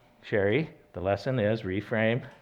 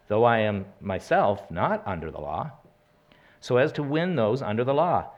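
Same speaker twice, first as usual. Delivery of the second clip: raised, measured Bible reading to the congregation; scripture reading; 2 semitones higher, 3 dB louder than usual. Acted. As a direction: proclaim the verses steadily, a little louder. Reads scripture aloud.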